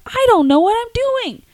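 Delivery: high, loud, slow flustered cry; panicked yelling back. Retold or imitated. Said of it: "I'm like".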